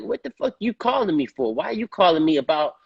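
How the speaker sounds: puzzled at being asked about someone else's film; confused. Retold or imitated. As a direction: question why he's even calling. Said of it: "And I'm like".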